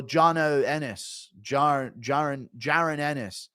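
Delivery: "Jono Ennis" drawn out slowly, then groping for "Jaron"; imitated weird tongue. Streamer mocking how a boxer's dad said Jaron Ennis, imitated weird tone. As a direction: mimic someone fumbling "Jaron Ennis" in an odd tone. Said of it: "He spoke this weird tone".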